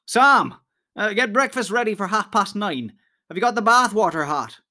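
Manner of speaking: mock lordly order. A narrator's reading. Pippin mocks master orders.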